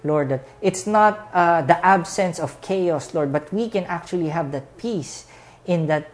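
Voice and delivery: earnest pastor's closing prayer. Acted. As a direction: pray over the congregation with music.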